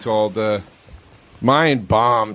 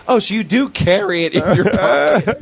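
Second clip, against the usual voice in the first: mock gotcha; 8 semitones higher than usual. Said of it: "I'm like".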